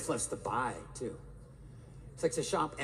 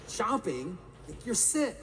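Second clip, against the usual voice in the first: incredulous husband; 6 semitones higher than usual. Retold or imitated. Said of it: "I'm like".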